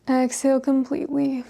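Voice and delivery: unhurried breath-count pacing; guided yoga breathing. Acted. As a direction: guide them calmly through each breath, leaving space. Leads slow yoga breathing.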